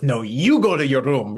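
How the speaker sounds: lightly voiced grandma accent firing back; imitating Nana's accent. Lightly voiced Nana accent, telling her daughter to go to her room. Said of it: "in her accent that she's doing".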